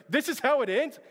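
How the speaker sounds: put-on a child who can't believe it; imitating son's dismay. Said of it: "He's like".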